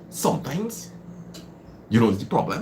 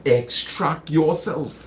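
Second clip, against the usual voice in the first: slower repeat; 4 semitones higher, slower than usual. Shown as a demonstration.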